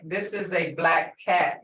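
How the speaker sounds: "black cat" leaned on, falling at the end; stress on BLACK CAT. Shown as a demonstration. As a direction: bring out BLACK before cat. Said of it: "is what I'm trying to say".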